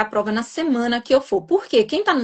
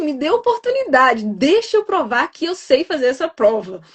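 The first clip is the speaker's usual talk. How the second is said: pleading prayer; 4 semitones higher than usual. Retold or imitated. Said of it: "Eu só falava assim".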